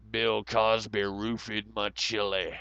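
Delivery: slow, lightly voiced Alex Jones rant; a hint of Alex Jones. Streamer imitating Alex Jones, a light slow rant. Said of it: "Alex Jones".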